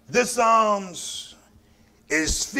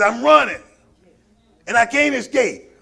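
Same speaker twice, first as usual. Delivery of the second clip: fiery preaching; 3 semitones higher than usual. Acted. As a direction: preach it, rising and pounding. Preaching at full force.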